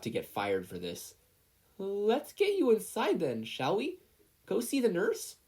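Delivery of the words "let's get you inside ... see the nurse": fussy teacher. Acted. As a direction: coax him inside nervously. Teacher soothing panicked boy.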